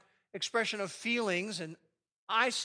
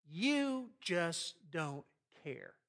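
slow, bitter "You just don't care"; slow bitter accusation; much slower than usual. Shown as a demonstration. Pastor demos judging a spouse's character, slow bitter. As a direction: drag out the blame. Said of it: "it comes off like this".

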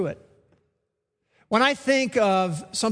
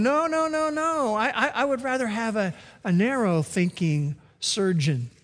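mock refusal; 2 semitones higher than usual. Imagined patient refuses the surgeon.

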